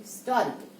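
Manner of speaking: Historical as 'is-TOR-ical' with a silent H; stress on second syllable. Shown as a demonstration. Teacher answers what do we say, stress on TOR. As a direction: lean on TOR in Historical, falling after it. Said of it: "आपण काय म्हणतो?".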